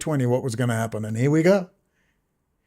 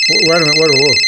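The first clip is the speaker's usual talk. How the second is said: mock surprise; 7 dB louder, much faster than usual. Mock interruption.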